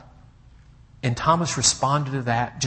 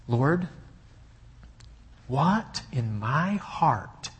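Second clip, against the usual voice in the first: earnest prayer; slower than usual. Retold or imitated. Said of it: "I said to God".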